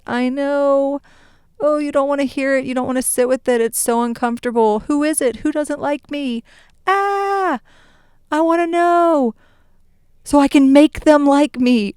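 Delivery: high, mock-anxious needy voice; whiny people-pleaser.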